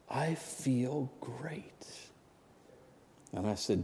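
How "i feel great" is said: whispered relief. Retold or imitated. Daughter's relief, quoted softly.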